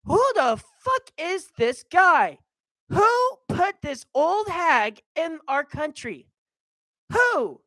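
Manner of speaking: a lightly voiced outraged grandpa; lightly voiced grandpa Chester, indignant. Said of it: "he would be like".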